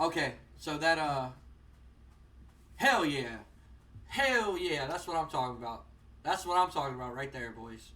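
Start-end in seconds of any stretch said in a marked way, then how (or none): 2.8-5.9 pumped cheer. Real, not acted. Celebrating the score.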